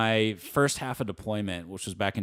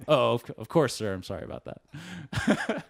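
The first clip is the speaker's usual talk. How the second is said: lightly acted apologetic underling, higher pitched; a hint of flustered deference, pitched up; mock apology; 5 semitones higher than usual. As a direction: imitate a sheepish reply to a superior. Acted apology to superior officer.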